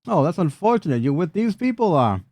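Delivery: swooping high goblin voice; goblin brute. Acted. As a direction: play a goblin brute greeting his victim, pitched well up. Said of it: "a Goblino brute kinda steps through".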